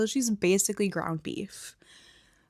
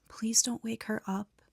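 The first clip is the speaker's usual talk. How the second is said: softly retold plea; quiet, lightly acted hush; 2 semitones higher, 6 dB quieter than usual. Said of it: "Nikki shushes him and says".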